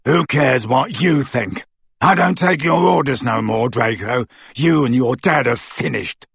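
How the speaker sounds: defiant thug voice; undisguised ferocity. A narrator's reading. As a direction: turn fiercely on your leader. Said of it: "with undisguised ferocity".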